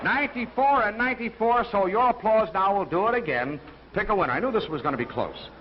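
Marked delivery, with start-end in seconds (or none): 0.0-1.6 excited shout. Real, not acted. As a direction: shout the tie to the crowd. Host announces tied applause scores.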